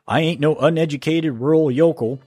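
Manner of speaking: put-on light Texas yokel accent. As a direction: put on a hint of Texas twang. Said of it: "my Texas accent".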